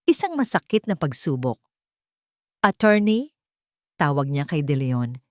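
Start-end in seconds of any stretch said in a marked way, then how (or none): 2.6-3.3 calling out. Acted. Calling out to lawyer.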